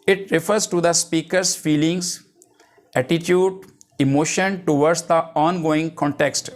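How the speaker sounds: reading a definition out slowly, word by word; slow dictation. Acted. Teacher dictating a definition to the class, slow and deliberate. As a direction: dictate it so students can write it down.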